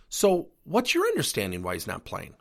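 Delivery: calm, friendly, unhurried question; calm friendly coach answering an angry parent. Shown as a demonstration. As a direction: ask it kindly to defuse the parent. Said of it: "Notice my tone. I'm friendly".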